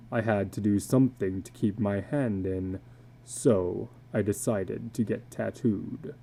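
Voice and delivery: a weary tattooed man confessing low; illustrated man. Acted. Tattooed man confiding to a stranger at dusk, low and weary.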